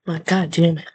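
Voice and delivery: real under-the-breath whisper of annoyance; whispered curse. Real, not acted. Vlogger annoyed at her own camera, whispered curse. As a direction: whisper it to yourself, fed up.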